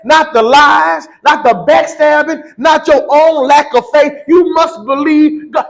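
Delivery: building, slow shouted preaching. Acted. Preacher exhorting the congregation, slow and shouting. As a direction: preach it with rising fire to the church.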